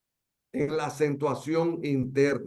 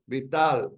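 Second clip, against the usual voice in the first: "vital" set apart, weight on "tal"; single out "vital" and lean on its last syllable; stress on final syllable. Shown as a demonstration. Teacher showing the sixth-syllable accent, stressing "vital" on "tal".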